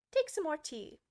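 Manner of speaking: a mild, hammed-up earnest offer. A narrator's reading. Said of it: "very earnestly".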